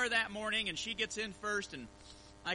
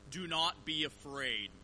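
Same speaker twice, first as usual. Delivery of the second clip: solemn recorded voice; 3 semitones lower, 4 dB quieter than usual. Retold or imitated. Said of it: "what I said in the voice was".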